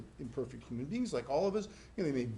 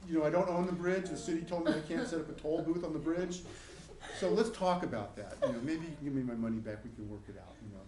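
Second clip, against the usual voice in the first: laughing through demo; 2 semitones higher, 4 dB louder than usual. Shown as a demonstration.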